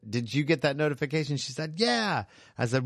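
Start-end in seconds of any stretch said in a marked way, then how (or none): 0.1-1.4 higher-pitched yell through the booth; retold yell. DJ calling to a coworker through the booth, retold yell. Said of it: "I yelled through the booth". 1.8-2.2 very high drawn-out mock yell; imitated yell. Coworker next door answering through the booth, imitated yell. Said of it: "What were you yelling about".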